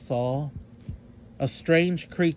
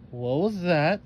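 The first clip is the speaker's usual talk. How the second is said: a mild, hammed-up fearful cry; frightened shriek; 4 semitones higher, 3 dB louder, slower than usual. Cassie startled by a rustling in the bush, mock fearful cry. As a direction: startle at the rustle, a touch scared. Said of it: "shrieked Cassie".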